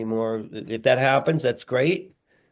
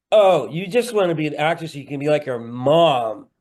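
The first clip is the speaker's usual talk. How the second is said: mock sarcasm; 3 semitones higher, 4 dB louder than usual. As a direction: tease with exaggerated, sing-song scorn. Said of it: "That's not sarcasm. That's something else".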